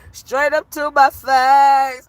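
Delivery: slow, drawn-out mock outrage; laughing disbelief. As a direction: stretch each word, tickled and scandalized.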